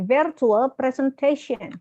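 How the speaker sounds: slow "presentation" with a clear "shen" at the end; marked shen ending. Shown as a demonstration. Teacher drilling a student on shen, slow model. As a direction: draw out "presentation", finishing on a hushing "shen". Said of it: "T I O N harus shen".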